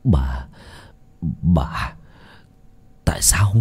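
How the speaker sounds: grind it out through clenched teeth; through gritted teeth. A narrator's reading. Husband confronting poisoner wife, gritted teeth. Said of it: "nghiến răng nghiến lợi".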